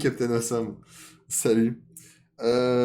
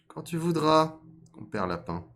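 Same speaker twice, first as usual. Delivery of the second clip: fox voice; 8 semitones higher, 4 dB louder than usual. Acted. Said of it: "Et le renard de se lécher les babines".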